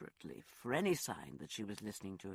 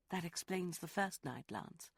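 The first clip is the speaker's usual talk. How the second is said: Rosalind, hurt; 5 semitones higher than usual. Acted. Woman confronts lover over his false identity, high and sharp. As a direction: throw his lie back at him.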